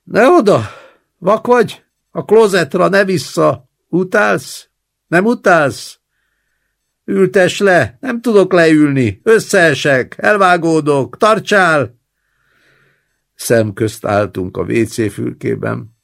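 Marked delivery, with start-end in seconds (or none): 0.0-12.0 high, loud frantic invalid; panicky old man. Acted. Frail old man yells at his grandson in the toilet, high and loud. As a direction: scramble for help, terrified of falling.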